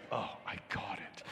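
breathy whisper, almost no voice; whispered reply. Retold or imitated. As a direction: hush it like a secret agreement. Narrator imitates Eduardo's reply.

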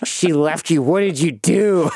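mock-incredulous gassed-up patient, words dragged out; loopy on gas. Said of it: "once it kicks in".

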